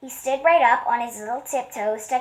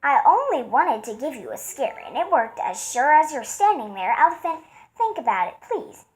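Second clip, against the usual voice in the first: mouse voice; 6 semitones higher than usual. A narrator's reading. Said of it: "The mouse laughed".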